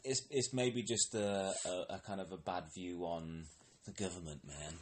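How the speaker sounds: laid-back hippie musing; lightly voiced dreamy hippie. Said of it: "said in, in a hippie voice".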